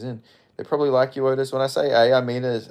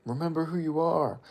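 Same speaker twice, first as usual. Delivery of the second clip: dramatic movie voice; 5 semitones higher, 5 dB quieter than usual. Acted. Quoting the film line.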